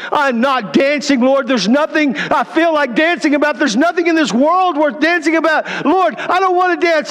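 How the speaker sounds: anguished refusal. Retold or imitated. Grieving man refusing God.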